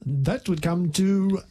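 slow, drawn-out put-on voice; mock cashier. Cashier tells customer the bill, slowly in a put-on voice. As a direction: lightly play a cashier totting up, slowly.

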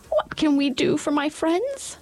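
very high squeaky little voice; squeaky mouse queen. Acted. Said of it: "in her squeaky little voice".

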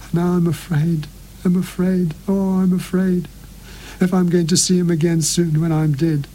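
frail dying sister, afraid and begging; dying sister confessing. Acted.

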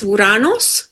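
Uranos said as oo-RAH-nos; Greek-style Uranos, open "ah" in the middle; Greek pronunciation. Shown as a demonstration. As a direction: say Uranos with an "oo" start and a clear "os". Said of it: "And in Greek".

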